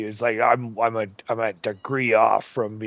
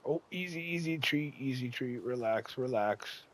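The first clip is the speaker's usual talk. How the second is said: quiet easy, relax, like calming a pet; soft coaxing; 7 dB quieter than usual. Real, not acted. Player coaxing the brush, softly soothing. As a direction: soothe it gently.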